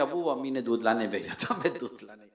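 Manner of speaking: low, hushed, submissive excuse; meek explanation. Acted. Son explaining to his cross father, meek and quiet. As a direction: answer softly and give way.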